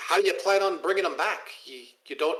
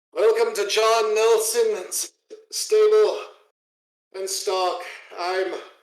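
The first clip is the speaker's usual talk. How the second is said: slow, dejected, beaten, defeated, raised voice; 7 semitones higher, 6 dB louder than usual. Voicing a stable owner who watches ogres carry a donkey: defeated. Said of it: "he just looks so defeated".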